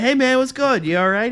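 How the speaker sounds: high, loud hail to a buddy; calling out. Retold or imitated. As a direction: call over to someone freaking out. Calling to panicking kid.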